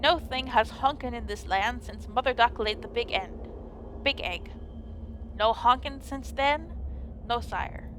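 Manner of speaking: solemn faux-archaic fairy-tale speech; lightly voiced medieval drama; mock Old English. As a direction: play it like an old legend, grave and formal. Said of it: "And very serious".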